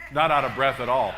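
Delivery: loud laughing marvel; laughing emphasis. Real, not acted. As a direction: burst out laughing at the memory. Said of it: "I mean, not out of breath at all".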